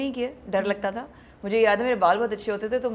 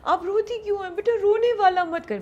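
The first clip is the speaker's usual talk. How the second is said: high, fussing mother's voice, much higher; imitating her mother; 11 semitones higher than usual. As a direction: scold the crying daughter like her mother. Mother voiced scolding her crying. (ماں کی نقل میں اونچی آواز سے ڈانٹنا)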